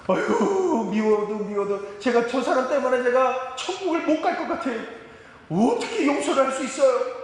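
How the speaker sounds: fed-up believer begging God for help; retold tearful complaint prayer. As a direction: wail your grudge to God, half-mocking. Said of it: "예수님 앞에 나와서 기도할 때".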